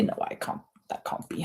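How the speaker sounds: whispering the count; whispered to herself. Real, not acted. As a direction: mutter it under the breath. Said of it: "counting rounds to herself".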